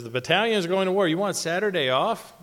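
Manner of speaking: mock bellow. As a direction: fire it off like an outraged lieutenant. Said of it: "He says".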